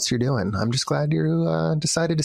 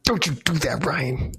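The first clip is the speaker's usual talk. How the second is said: a firm warning, now aimed at Ryan; stern scolding; slower than usual. Shown as a demonstration. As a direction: scold Ryan with a threatening "Don't". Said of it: "Do it again".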